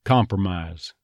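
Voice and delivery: "Compromise" said as comper-mise; reversed R "Compromise". Shown as a demonstration. Coach repeats it naturally, comper-mise. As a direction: put an er in the middle of "Compromise". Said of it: "might be more like compromise".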